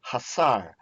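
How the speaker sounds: hasar said once, clear, falling; teacher answers with hasar; modelled word. Shown as a demonstration. Teacher models hasar for students. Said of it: "How about hasar".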